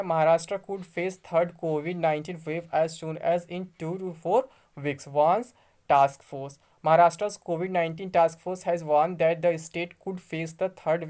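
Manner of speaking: slow, word-by-word reading of English text; slow news reading. Acted. Vlogger reads the news to his friends, slow careful reading. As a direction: spell out each English word carefully, slowly.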